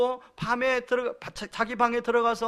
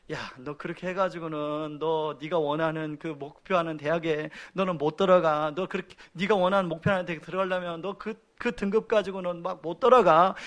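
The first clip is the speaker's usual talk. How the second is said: nagging dad; 5 semitones lower, 3 dB quieter than usual. Retold or imitated. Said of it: "잔소리가 들어가죠".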